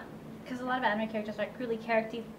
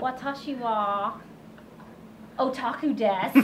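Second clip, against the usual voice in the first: put-on Valley Girl Japanese. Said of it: "in a valley voice".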